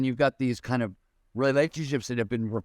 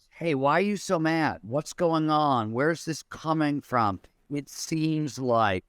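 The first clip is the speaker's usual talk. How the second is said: curious questions; 2 semitones higher, slower than usual. Retold or imitated. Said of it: "All the good questions that I've learned".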